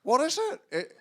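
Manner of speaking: Josh Widdicombe impression. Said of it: "Your Widdicombe impression is starting to sound like a drunk Alan Partridge".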